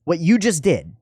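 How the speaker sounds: eager teacher catching the moment; excited pointing. Retold or imitated. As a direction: point at him and call it out, building. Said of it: "I pointed at him".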